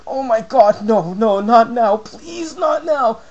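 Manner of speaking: high, loud begging, no no not now; panicked pleading. Retold or imitated. Player begging the game not to freeze Venusaur, panicked. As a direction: plead desperately against the freeze. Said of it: "and I was like".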